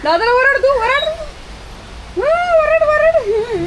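high-pitched playful urging; high baby-talk goading; egging on. Pretend. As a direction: coax the pet in a very high voice. Egging the dog to scold back.

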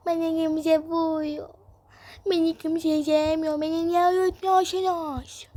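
put-on slow, drawn-out childish complaint; tearful mock sulk; pretend whining. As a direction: whine it out, stretching the words. Child complains nobody lets her sleep.

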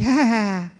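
acted guffaw; mock parental laughter. Parent laughing at child's words, acted.

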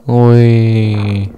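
excited whee. Real, not acted. Dropping down in the game.

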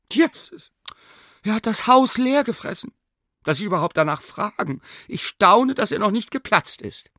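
very high, shrill-pitched exasperated maid. Acted. Sina tells the professor the dog ate everything, exasperated. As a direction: throw up your hands at the greedy dog.

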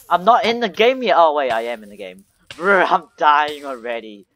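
loud, alarmed gamer; panicking gamer. Real, not acted. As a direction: yell that you're dying. Dying in game, alarmed.

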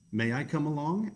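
lightly voiced fox; hopeful Fox. Fox asks to join.

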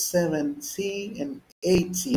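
"seventy" and "eighty" with crisp Ts; British-style "seventy and eighty", Ts fully pronounced. Shown as a demonstration. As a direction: sound a hard T in "seventy" and "eighty". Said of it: "in the British".

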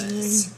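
small piggy grunt of pleasure; little pig noise. Real, not acted. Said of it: "that was a little pig noise I made".

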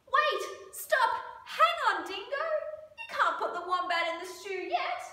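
high, loud urgent shouts; frantic protest. A narrator's reading. Animals stop Dingo cooking wombat, high urgent cries. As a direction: call out high to stop him.

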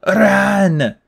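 high, loud panicked bleat; Grover bleating. A narrator's reading. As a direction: bleat out a frightened warning. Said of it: "Grover bleated".

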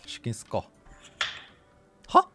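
normal talking voice

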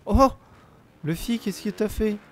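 high, comic put-on voice; funny voice. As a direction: squeak it out like a cartoon. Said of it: "j'ai fait une drôle de voix aussi".

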